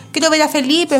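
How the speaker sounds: mock yell. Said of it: "me gritó a viva voz".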